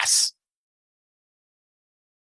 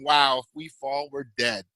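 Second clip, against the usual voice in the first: sinking low and soft, fading to almost nothing; a scared murmur looking down the drop; hushed awe; 8 semitones lower, 6 dB quieter than usual. Retold or imitated. Rider peering over the side.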